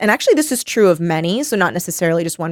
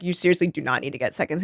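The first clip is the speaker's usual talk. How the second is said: softer, fast, low scold; hushed, fast telling-off; quiet mock scold; 5 semitones lower, 9 dB quieter, faster than usual. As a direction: mutter it quickly under breath. Telling Lucas not to eat more.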